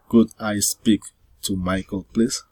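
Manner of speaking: "Could I speak to Michael, please?" lifting on "please"; polite request ending up on "please"; rising intonation. Shown as a demonstration. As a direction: raise "please" at the end. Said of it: "rising intonation".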